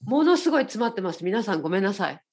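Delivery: stuffed-up nose voice; nasal voice. Real, not acted. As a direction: speak with a blocked nose from a cold.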